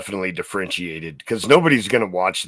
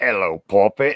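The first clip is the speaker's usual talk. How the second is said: put-on female forest goblin voice. Speaker retelling an offhand remark made in a female forest goblin voice. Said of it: "I was was doing the voice".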